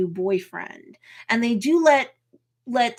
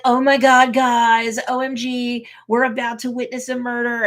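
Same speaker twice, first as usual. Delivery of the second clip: influencer squeal; 3 semitones higher, 5 dB louder than usual. Retold or imitated. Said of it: "totally a Titania thing to do".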